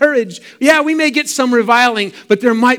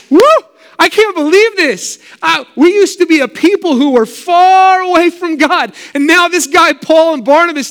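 much higher and louder, bursting with joy; excited Gentile; 7 semitones higher, 5 dB louder than usual. Retold or imitated. Gentile believers celebrating in the streets, ecstatic. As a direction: whoop it up like a newly saved convert. Voicing rejoicing Gentiles going out.

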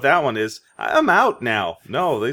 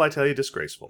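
softer, lightly acted disgraceful; mock indignant captain; 2 semitones higher, 5 dB quieter, much faster than usual. Shown as a demonstration. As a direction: play a mildly huffy captain. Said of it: "I got it's disgraceful".

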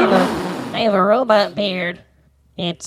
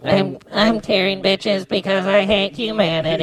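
robot voice. Shown as a demonstration. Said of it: "that sounded way better".

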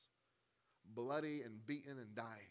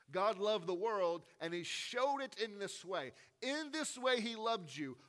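much higher and louder, God and loved punched; rising preached proclamation; 7 semitones higher, 7 dB louder than usual. Real, not acted. Preacher proclaiming God's love to the congregation, loudly. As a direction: preach it out, building to full force. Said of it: "restates with force".

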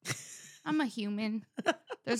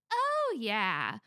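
brand slogan shout; 5 dB louder than usual. Acted.

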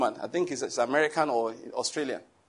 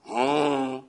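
drawn-out "mm" of contempt; dismissive noise; 3 semitones lower than usual. Shown as a demonstration. Preacher showing how to look at them, dismissive hum. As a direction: hum it long, as a demonstration. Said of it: "Just do like this".

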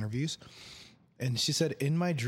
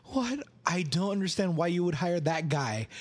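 higher-pitched, incredulous protest; mock outrage, only mildly raised; indignant; 4 semitones higher than usual. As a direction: object to an interviewer's choice. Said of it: "Yelling at some, like, interviewer".

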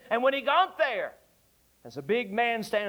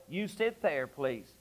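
soft, lower, tender; gentle request; 7 semitones lower, 5 dB quieter, slower than usual. Retold or imitated. Moody gently seating the little boy, tender. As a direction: settle the boy kindly.

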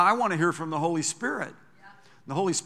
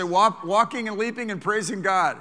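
loud rousing call to repeat; congregation call; 4 semitones higher, 5 dB louder than usual. Real, not acted. Preacher rousing the congregation to shout praise. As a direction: lift them up with a loud shout. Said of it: "Everybody say".

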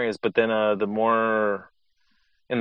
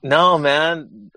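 real Cholo-tinged accent, higher and louder; Cholo-accented protest, pitched up and punched; 6 semitones higher, 6 dB louder than usual. Real, not acted. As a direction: push back with a drawn-up Cholo lilt. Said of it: "sounded real Cholo".

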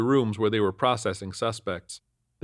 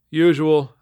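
louder, resigned one-word answer; sighed reply; 6 semitones higher, 9 dB louder than usual. A narrator's reading. Officer answers the looping sergeant, sighing. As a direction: answer with a touch of weariness. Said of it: "I sighed".

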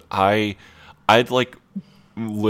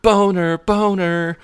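high, loud jeering call; a crowd heckling someone with a silly chant; mock yelling; 12 semitones higher, 5 dB louder, slower than usual. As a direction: jeer the name across a crowded pub. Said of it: "you hear people kinda yelling".

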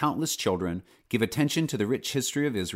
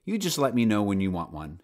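smiling. Acted. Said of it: "she added with a smile".

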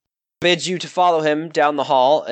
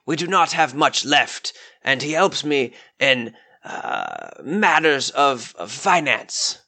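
lightly voiced polite old lord, a touch higher; the lord speaks courteously, slightly raised pitch; Lord White, genteel; 5 semitones higher than usual. Lord White explains his envoy to the adventurers, genteel and courteous.

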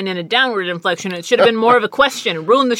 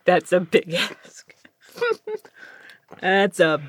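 whispered echo through a laugh; much slower than usual. Real, not acted. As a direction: whisper it back, amused. Echoing friend's quip with laugh.

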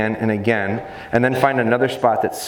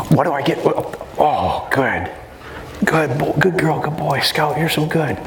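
happy praise; 3 semitones higher than usual. Retold or imitated.

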